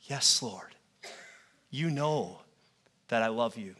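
said simply. Retold or imitated. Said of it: "He just says simply".

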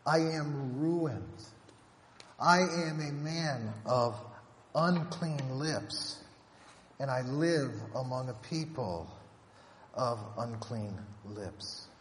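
slow, heavy confession; grave confession. Retold or imitated. Isaiah confessing unclean lips, slow and heavy. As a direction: let each word weigh on you.

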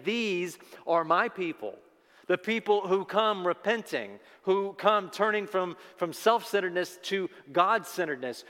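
emphatic, ringing, each claim driven home; impassioned declaration. Acted. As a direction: proclaim it as Jesus claiming his people. Preacher declares as Jesus, impassioned.

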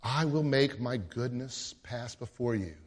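lightly voiced gentle God; gentle assurance. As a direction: speak it as a calm assurance. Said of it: "But listen how he says it".

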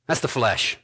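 ordinary talk

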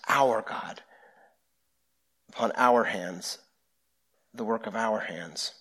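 soft, falling phrases with weight on each "our"; stress on "our". Shown as a demonstration. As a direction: quietly underline every "our". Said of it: "we have the word our".

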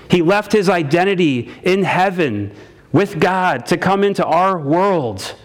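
earnest pastor preaching to the congregation; sermon preaching. Acted.

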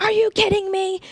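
high-pitched mock scream of disbelief; exasperated scream. Nanny flipping out at the little girl, high exasperated mock scream. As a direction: act out snapping at a child, pitch shooting up. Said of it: "I would scream at her".

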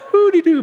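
high-pitched sing-song woo-de-doo; a silly high noise for a kid scurrying back; playful scamper noise. Retold or imitated. Coach mimicking kid drifting back to base, playful high noise.

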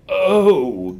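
sharp hurt gasp "Oh". Acted. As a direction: gasp as if struck. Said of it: "gasped Diggory".

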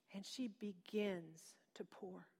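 slow, breathless whisper; a whispered, awed pour; hushed whisper. A narrator's reading. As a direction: let the words fall to a hush. Hushed climax of the miracle story.

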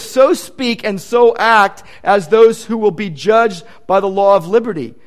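slow, weighty scripture read; solemn, slow quotation. Acted. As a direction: give each word its weight. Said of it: "He says".

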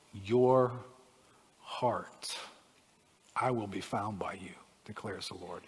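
low, measured reading, softening at the end; scripture reading. Acted. Preacher reading verse twelve to the congregation, low and measured.

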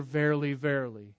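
soft, solemn and archaic; old King James reading. Acted. Preacher quoting the King James wording. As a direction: intone it like scripture. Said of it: "an old King James".

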